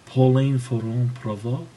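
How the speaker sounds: put-on "Pauline Ferrand-Prévot" said in a broad Aussie accent, flattening the French; Aussie tourist accent, as a cheeky answer to the French request. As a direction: play an Australian tourist in Paris mangling "Pauline Ferrand-Prévot". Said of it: "I'll try my, um, Aussie tourist in Paris pretending not to know how to say anything".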